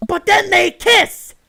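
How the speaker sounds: high, loud, dragged-out gasp of scandal; excited gasp. Acted. Daughter telling dad about the kiss, scandalized and thrilled. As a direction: spill the juiciest gossip, slowly and loud. Teen gossiping dramatically to dad.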